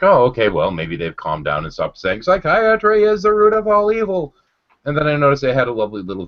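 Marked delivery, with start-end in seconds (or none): 0.0-4.3 sarcastic inner voice. Retold or imitated. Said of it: "And I'm like".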